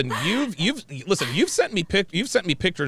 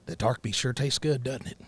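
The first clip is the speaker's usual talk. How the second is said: softer, lightly voiced Southern date; a hint of Southern suitor, trailing softer; white guy from Mississippi; 4 dB quieter than usual. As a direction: coax gently as a country good old boy. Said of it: "let's say I was a white guy".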